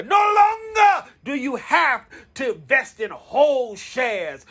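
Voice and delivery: preaching. Acted. Rallying listeners about fractional shares, preacher shout. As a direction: preach it to the crowd. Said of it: "somebody say no longer".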